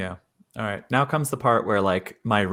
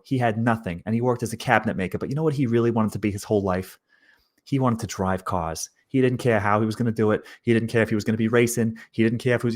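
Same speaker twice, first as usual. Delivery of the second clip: put-on Italian American accent. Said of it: "You just said Buick Skylark in the accent".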